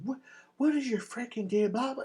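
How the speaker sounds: high, exasperated mock woman voice; a woman snapping at a pushy guy, lightly mocked; mock annoyed woman. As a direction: play the irritated woman brushing him off. Woman snaps at the friend.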